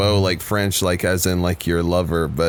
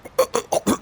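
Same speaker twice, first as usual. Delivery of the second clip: mock retching. Telling a friend the story, a hammed-up retch. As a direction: fake gag and retch. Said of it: "started vomiting on myself".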